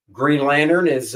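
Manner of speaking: ordinary talk, nothing marked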